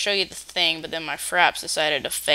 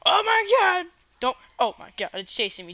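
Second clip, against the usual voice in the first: scared; 11 semitones higher than usual. Real, not acted. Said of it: "I'm so scared of lava now".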